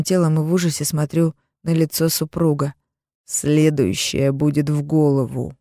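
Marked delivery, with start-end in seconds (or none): 3.2-5.6 slow cold menacing threat; husband coldly threatens with gun; threatening. Acted. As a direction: promise violence, calm and slow. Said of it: "угрожающе говорит".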